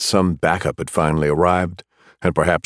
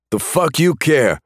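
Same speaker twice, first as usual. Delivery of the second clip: high, bitter snarl; 10 semitones higher than usual. Acted. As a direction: spit it out with contempt. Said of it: "he snarled".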